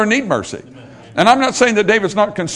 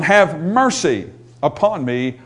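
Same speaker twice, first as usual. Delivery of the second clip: slow, quoted prayer for mercy, gently lower; heartfelt plea; 5 semitones lower, slower than usual. Retold or imitated. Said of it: "This is a heartfelt plea".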